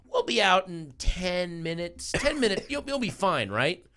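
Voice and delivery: mock-sweet, as if soothing a child; mock reassurance. Imagined mock reassurance to dog owner.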